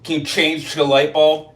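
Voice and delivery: slushy lateral lisp on the "ch" in "change" and the "s" sounds. Shown as a demonstration. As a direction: air spills over the sides of the tongue on "change". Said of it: "it comes out like".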